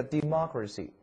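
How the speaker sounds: "democracy" stressed on MOC; "democracy" with weight on the second syllable. Shown as a demonstration. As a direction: model "democracy" clearly as de-MOC-racy. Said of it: "特别注意重音位置".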